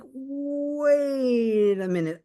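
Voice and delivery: high, very slow drawn-out realization; a long high wait as the penny drops; sudden realization. Retold or imitated. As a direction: stretch it out as it dawns on you. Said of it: "And then I'm like".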